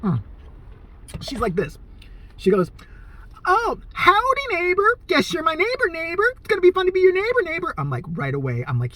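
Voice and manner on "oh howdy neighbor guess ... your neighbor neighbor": much higher, sing-songy creepy cheer; sing-songy cheery neighbor. Retold or imitated. Neighbor greeting him at move-in, high sing-song cheer. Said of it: "really sing-songy and cheery".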